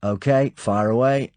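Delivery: high, hearty English officer voice; a lightly voiced hearty Englishman; hearty Muir. A narrator's reading. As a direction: fuss over a hurt friend. Muir ready at teleprinter.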